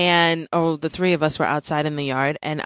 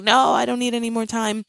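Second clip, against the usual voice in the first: imitated child; 6 semitones higher than usual. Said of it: "And he was like".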